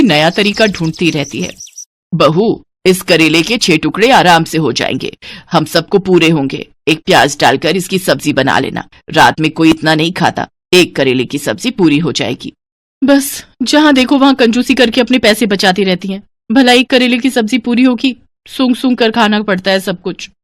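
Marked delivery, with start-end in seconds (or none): 2.1-12.5 lightly voiced older woman, a little lower; matter-of-fact household orders; penny-pinching mother-in-law laying down the menu; stingy mother-in-law. Stingy mother-in-law instructs daughter-in-law. 13.0-20.3 higher-voiced daughter-in-law's resentful aside; muttered complaint at full voice; grumbling to herself. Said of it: "मन ही मन क्या बुदबुदा रही है".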